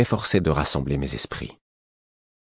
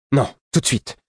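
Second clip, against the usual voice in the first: high, impatient insistence; curt refusal; 9 semitones higher than usual. A narrator's reading. Prince refusing to wait until morning, impatient. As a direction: cut the objection off, voice pitched up.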